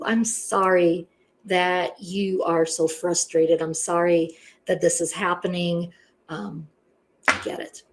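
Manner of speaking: calm the caller down gently; soothing apology. Shown as a demonstration.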